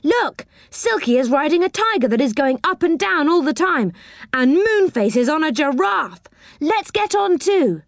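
high-pitched eager exclaiming; excited cry. A narrator's reading. Boy points out friends on the roundabout, excited cry. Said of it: "cried Joe".

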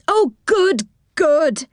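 high, pleased exclamation; delighted cry. A narrator's reading. Moonface running out to greet early visitors, delighted cry. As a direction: burst out with glad, high-pitched welcome. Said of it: "he cried".

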